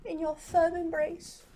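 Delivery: hammed-up fainting lady; mock swooning damsel. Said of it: "That was the fakest feint".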